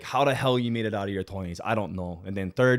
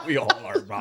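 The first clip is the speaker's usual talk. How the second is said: said through real laughter, much higher; laughing; 10 semitones higher than usual. Real, not acted. Guest laughing along with the host about getting in shape, said through laughter. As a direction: get the words out while still laughing.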